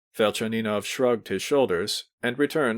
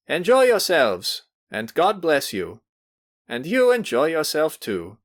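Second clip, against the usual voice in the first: put-on benevolent old man blessing; 6 semitones higher, 4 dB louder than usual. A narrator's reading. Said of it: "he added".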